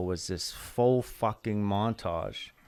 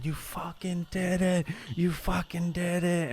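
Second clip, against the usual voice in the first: retold yelling; 8 semitones higher, 5 dB quieter than usual. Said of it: "and he's yelling".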